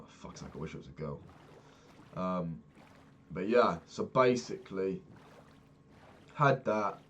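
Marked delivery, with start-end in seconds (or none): 0.1-1.2 quiet grumble. Retold or imitated. Grumbling inwardly during massage.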